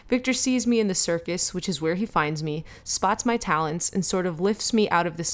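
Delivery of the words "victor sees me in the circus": Daniel Radcliffe voice. Pretend. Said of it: "in a Daniel Radcliffe voice".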